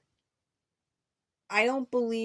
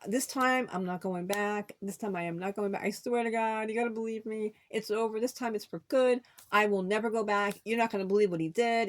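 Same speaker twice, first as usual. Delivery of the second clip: swearing earnestly; 4 semitones higher than usual. Retold or imitated. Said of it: "I would always swear up and down".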